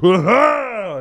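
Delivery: high surprised whoa; a light, high startled whoa; mock whoa. Cohost imitating the character finding the trash can, high. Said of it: "He's like".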